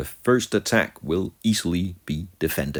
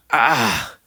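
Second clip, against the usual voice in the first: loud, raised "ah"; dismayed outcry; 4 semitones higher, 5 dB louder than usual. Real, not acted. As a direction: cry out at the bad roll. Outcry at a high roll.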